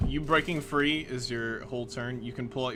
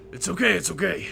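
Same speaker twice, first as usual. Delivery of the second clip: urgent reassurance; 5 semitones higher, 5 dB louder, faster than usual. Acted. Comforting upset Sarah.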